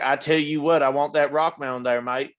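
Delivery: lightly put-on Southern-British mix; half-successful Southern-British accent blend. Shown as a demonstration. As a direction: try British through a Southern twang. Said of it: "you can't say British shit with the Southern".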